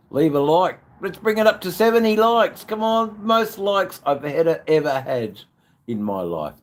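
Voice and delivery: high, loud plea for likes; excited plea. Real, not acted. Asking viewers for seventy likes, high and loud.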